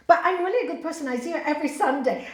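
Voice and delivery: quick indignant insistence; defensive protest. Retold or imitated. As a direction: blurt it out fast to defend herself. Daughter protests she is good.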